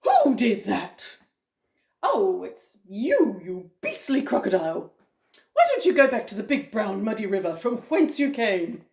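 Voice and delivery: loud, indignant storybook elephant; big deep elephant voice. Acted. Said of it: "deep voice".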